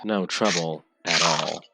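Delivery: flat and a little slow; deadpan, no feeling; monotone voice. Acted. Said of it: "Nerul's monotone voice".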